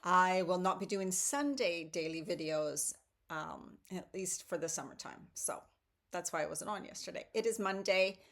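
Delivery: ordinary delivery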